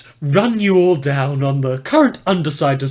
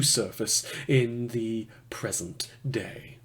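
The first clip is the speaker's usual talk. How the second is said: whispered aside; 5 semitones lower, 12 dB quieter, slower than usual. Acted. Ominous aside in briefing.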